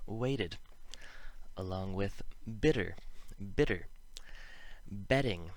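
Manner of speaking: isolated words such as "weighted", T tapped like a quick D; "weighted" as "wayded", each word falling; tapped homophone list. Shown as a demonstration. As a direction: recite each word identically, tapping the T in "bitter" and "betting". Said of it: "use more homophones as examples".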